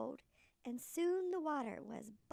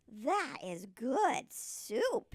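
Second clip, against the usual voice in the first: put-on sweet old lady; 3 semitones lower, 6 dB louder, much slower than usual. Old lady tastes soup.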